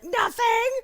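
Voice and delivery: high, loud, caught-out yelp; defensive denial. Retold or imitated. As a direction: snap back innocently, too fast to be believed. Caught typing, denying it.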